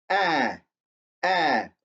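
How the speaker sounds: the vowel "Ah" held as an open "ah"; "ah" sounded twice, open and drawn out; saying ahh. Shown as a demonstration. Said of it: "Do you hear the vowel sound?".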